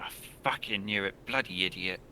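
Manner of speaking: softly muttered irritation; huffy. Acted. Sister woken up, huffing about her brother, irritated. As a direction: grumble it under the breath. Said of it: "you hear a huff".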